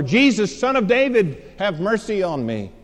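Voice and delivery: high, loud call, easing at the end; hollering out. Retold or imitated. Blind man to Jesus over the crowd, hollering out. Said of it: "hollered out all the more".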